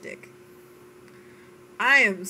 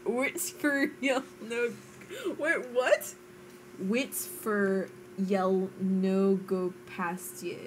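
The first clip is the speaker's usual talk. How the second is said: put-on Scottish accent; slower than usual. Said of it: "I can speak with a Scottish accent".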